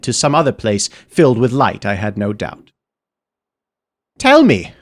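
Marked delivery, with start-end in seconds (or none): 4.2-4.7 high, loud call after someone leaving; calling after him. Acted. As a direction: shout it after him as he vanishes. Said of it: "I called after him".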